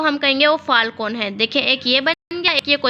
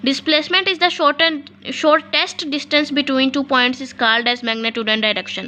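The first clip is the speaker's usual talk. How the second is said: slow dictation reading; much slower than usual. Shown as a demonstration. Reads the definition for dictation.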